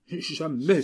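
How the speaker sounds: loud, high refusal; outcry. Acted. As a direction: fling out the refusal. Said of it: "s'écria Camille". (cri de refus, fort et aigu)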